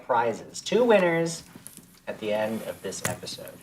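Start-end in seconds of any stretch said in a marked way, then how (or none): 2.1-3.5 whisper. Real, not acted. Giveaway announcement, drops to whisper.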